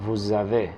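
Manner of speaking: "Vous avez" said as vou-zavez with voiced Z; Z liaison. Shown as a demonstration. Teacher confirming usted tiene in French, voiced Z liaison. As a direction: link the words with a buzzing Z. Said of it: "suena es como una Z".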